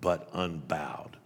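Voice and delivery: poem recital. Acted. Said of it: "It's got that line in it".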